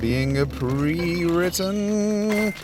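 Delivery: high, loud, slow emphatic declaration; slow, high, loud excited rant; fired up. Real, not acted. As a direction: lean into the point like a lecture. Passionate lecture rant.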